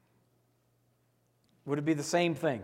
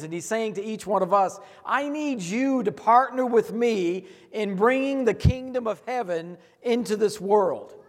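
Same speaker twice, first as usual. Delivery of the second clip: louder, fervent sermon delivery; preaching at full force; 6 semitones higher, 6 dB louder than usual. Acted. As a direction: drive the message home to the congregation.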